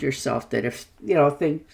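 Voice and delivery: talking through hiccups; words broken by a hiccup. Real, not acted. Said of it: "pardon me, I got the hiccups".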